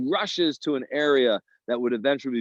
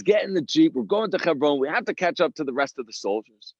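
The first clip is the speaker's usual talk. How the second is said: higher and louder urgent call; urgent shout; 5 semitones higher, 3 dB louder than usual. Retold or imitated. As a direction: yell at the driver to hurry. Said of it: "So he screamed to his driver".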